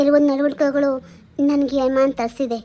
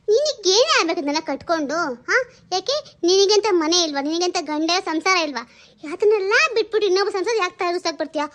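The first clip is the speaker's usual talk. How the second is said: angry rebuke; 2 semitones lower than usual. Acted. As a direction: put the nosy neighbor in her place. Wife rebukes meddling neighbor.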